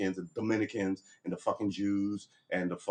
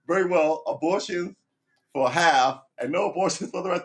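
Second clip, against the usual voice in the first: high, loud mock compromise proclamation; cartoon politician; 7 semitones higher, 4 dB louder than usual. Candidate placating a booing crowd, high and loud. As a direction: announce the deal with pompous finality. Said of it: "and they go".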